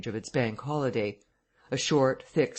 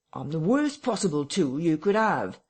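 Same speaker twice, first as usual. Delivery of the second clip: whining tramp voice; 3 semitones higher than usual. A narrator's reading. Marvel whines.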